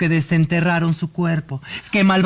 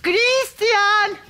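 frightened; 12 semitones higher than usual. Acted. Scared by real haunting.

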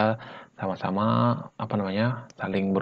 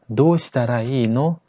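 slow; 3 dB louder, slower than usual. Shown as a demonstration. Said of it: "Ya, kalau dipercepat".

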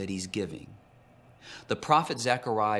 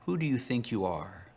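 a touch of mocking sarcasm; mild sarcastic challenge to Jesus; 2 semitones higher than usual. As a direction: lightly needle him with the question. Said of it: "asked sarcastically".

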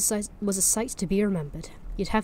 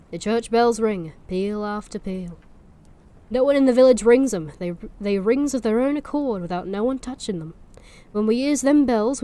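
put-on Norfolk accent; 3 semitones higher, 4 dB louder than usual. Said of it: "I'm having to push the accent".

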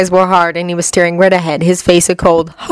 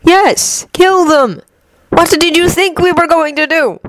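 higher, measured villain voice; Loki's cool, higher menace; cold god Loki; 10 semitones higher than usual. Acted. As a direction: lay out the plan like a calm schemer.

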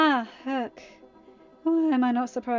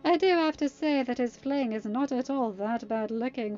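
higher, louder mocking boast; smug sneer; 3 semitones higher, 7 dB louder than usual. A narrator's reading. Captive mocking the guard he slipped past, smug. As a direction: brag and sneer with relish. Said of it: "Freddy smirked".

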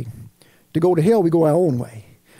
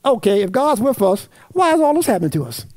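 smug, mocking paraphrase rising at the end; a touch of smugness; smugly; 3 semitones higher than usual. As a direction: say it with a smug shrug. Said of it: "I'm gonna do it smugly".

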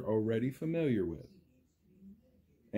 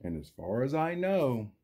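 lively storybook read, big rises and falls; reading to children. A narrator's reading. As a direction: read it like story time for little kids.

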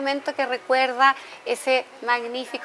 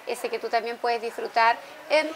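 softer, measured on-air plug; sponsor read; 7 dB quieter than usual. Real, not acted. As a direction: present the sponsor in a gentle, unhurried announcer manner. Host reads a sponsor plug.

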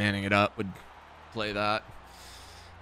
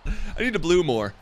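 high-pitched real yell, much louder; exasperated yelling; 10 semitones higher, 6 dB louder, slower than usual. Real, not acted. Gamer yelling over a botched pass with Jordan Love, loud exasperated shouting. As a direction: yell it out, voice leaping way up.

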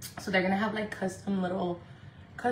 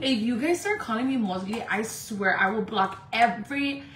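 1 firm warning; 5 dB louder than usual. Real, not acted. Repeating the threat more forcefully.

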